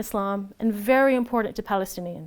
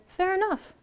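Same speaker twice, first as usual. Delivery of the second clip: grudging concession; 8 semitones higher than usual. Retold or imitated. Settler concedes after pause.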